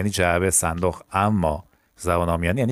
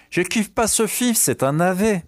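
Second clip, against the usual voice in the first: high, slow, spelled-out French phrase; slow teaching demo; 9 semitones higher, slower than usual. Shown as a demonstration. Teacher to Persian students, a slow raised model sentence. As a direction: lift it high and draw it out for learners. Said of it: "teacher models slang example".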